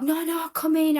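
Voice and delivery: Polish lady inviting in. Retold or imitated. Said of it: "Polish lady inviting".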